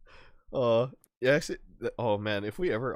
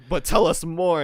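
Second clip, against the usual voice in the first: mock plea; 7 semitones higher, 8 dB louder than usual. Mocking a character's plea.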